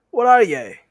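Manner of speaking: loud, high demanding troll. Acted. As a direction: bark a question at the tiny thing.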